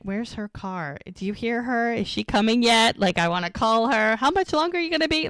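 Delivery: retold antsy, rising impatience; impatient waiting. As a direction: voice someone impatiently watching for her. Jack anxiously waiting for Mel.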